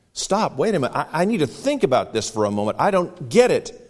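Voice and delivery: high, hurried, flustered plea; overwhelmed woman. Acted. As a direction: stammer out the confusion.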